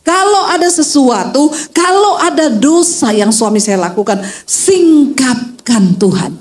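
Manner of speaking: slow, drawn-out acted plea to God; acted earnest petition, slow on each request; wife's prayer. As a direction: pray as the pleading wife, stretching the key verb. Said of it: "lalu istrinya berdoa".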